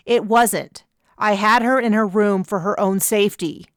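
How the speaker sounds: hard, harsh words as temper rises; harsh rising temper. Acted. Captain to a friend who let Chloe go, harshly. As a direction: let the temper climb and bite. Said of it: "I could hear the harshness in my words".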